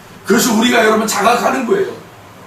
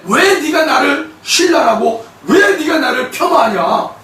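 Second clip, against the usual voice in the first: raised, drawn-out challenge; mildly indignant pushback, pitched up; indignant protest; 5 semitones higher than usual. Acted. Believer confronting those who belittle them, indignant protest.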